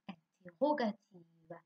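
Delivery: interrogative said slowly, syllable by syllable; slow spoken model. Shown as a demonstration. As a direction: read interrogative out slowly for the class. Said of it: "Ensemble avec moi, on va écrire interrogative". (lentement, syllabe par syllabe)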